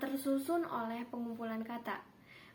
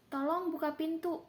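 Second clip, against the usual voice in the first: "Tolong buka pintu" said with a raised, firm pitch; teacher demonstrating a command sentence, pitched up; high command intonation; 5 semitones higher than usual. Shown as a demonstration. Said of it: "pelafalannya dengan intonasi tinggi".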